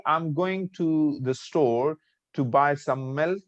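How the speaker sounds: slow line, rising to hang on "milk"; list intonation. Shown as a demonstration. Teacher showing how the tone goes, cross tone. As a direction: stretch it out and lift the end of "milk". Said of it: "the tone goes like this".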